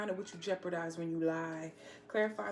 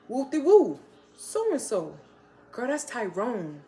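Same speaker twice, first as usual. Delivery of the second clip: loud, excited mock gossip; hammed-up girlfriend spilling the tea; gossiping friend; 8 dB louder, slower than usual. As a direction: call out the names like juicy gossip. Friend gossiping about spotting boyfriend.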